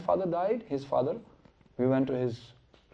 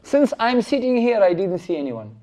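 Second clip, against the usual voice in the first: sly Brahmana; 6 semitones higher, 6 dB louder than usual. Acted. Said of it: "He just changed his asana".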